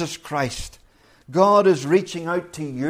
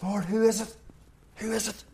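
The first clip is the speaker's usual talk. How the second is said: 1 soft intimate question; 4 semitones higher, 7 dB quieter, faster than usual. Retold or imitated. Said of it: "he says".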